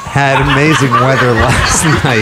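laughter breaking through words; fighting a giggle while talking; trying not to laugh. Real, not acted. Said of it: "try not to laugh".

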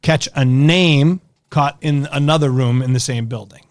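ordinary talk, nothing marked

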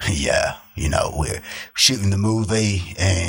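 put-on slow, lightly British-accented film star; Idris Elba British accent. Playing a British actor describing the movie shoot, in a light British accent. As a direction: drawl it out like a British actor on set. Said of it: "I gotta pretend I'm Idris Elba".

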